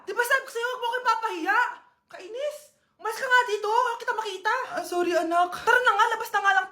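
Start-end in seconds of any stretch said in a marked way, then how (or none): 0.0-4.5 higher, irritated daughter; annoyed snapping. Acted. Embarrassed daughter shoos mother away, irritated. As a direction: snap at your embarrassing mom.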